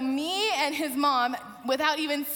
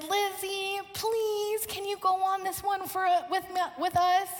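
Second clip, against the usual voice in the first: put-on higher, lightly pleading kid's voice; pleading child; 5 semitones higher than usual. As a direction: beg sweetly like a hopeful child. Child begging to join a ride.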